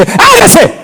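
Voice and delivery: high, ringing divine command; voice of God commanding. Acted. Preacher voicing God's command at creation. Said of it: "Dios no dice".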